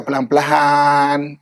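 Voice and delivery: unhurried, lengthened "pelan-pelan"; slow and gentle. Shown as a demonstration. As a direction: stretch the last syllable of "pelan-pelan". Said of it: "dia akan bercakap".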